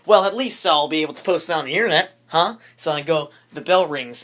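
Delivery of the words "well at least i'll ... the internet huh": excited. Retold or imitated. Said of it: "but I'm like".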